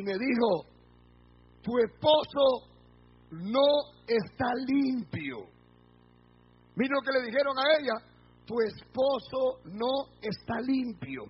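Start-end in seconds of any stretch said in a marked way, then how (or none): 1.6-5.5 very slow, measured, word by word; solemn pronouncement. Retold or imitated. Heavenly figure warning a wife about her husband, solemnly. 8.5-11.2 slow and deliberate, spacing each word; solemn pronouncement. Retold or imitated. Preacher repeating what the wife was told, solemnly. Heavenly message repeated slowly.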